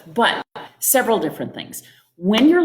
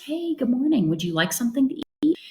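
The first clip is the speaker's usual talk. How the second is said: friendly offer; 6 semitones higher than usual. Shown as a demonstration. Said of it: "did I even ask her".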